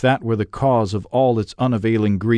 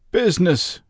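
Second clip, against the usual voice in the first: sharp higher cry of the word; cried out; 9 semitones higher than usual. A narrator's reading. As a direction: fling the word back in anguish. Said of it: "cried the ghost".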